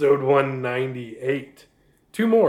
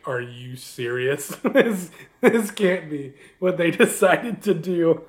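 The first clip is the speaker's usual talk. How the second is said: incredulous aside; slower than usual. Retold or imitated. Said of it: "looking at my mother and being like".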